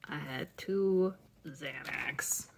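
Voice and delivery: whispered aside. Real, not acted. Marking calendar, hushed aside.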